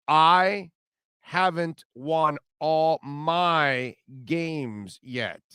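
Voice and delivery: imitating a Southern coach accent, very slow, leaning on "my"; slow mock Southern drawl stressing "my". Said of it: "Notice how he says".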